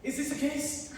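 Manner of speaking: hammed-up French chef accent; fake French accent. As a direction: lay the French accent on thick, like a cartoon chef. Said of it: "Why are you speaking in a German accent?".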